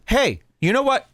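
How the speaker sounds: high opening challenge, slowing down pointedly; retold psycho mode. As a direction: confront the guard in a mock outburst. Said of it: "So then I go into psycho".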